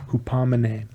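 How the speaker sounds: hupomene whispered, unvoiced; whispered word. Shown as a demonstration. Preacher whispering the Greek word hupomene.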